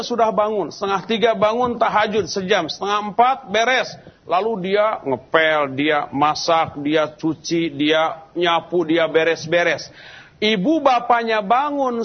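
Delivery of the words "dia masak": ordinary talk, nothing marked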